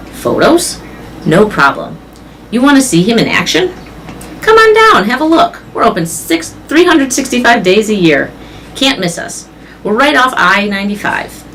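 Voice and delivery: lightly voiced salesman Mac, upbeat; a hint of a showman pitching the mall; Mac on the phone. Mac hustling a caller to visit the mall, a lightly voiced salesman.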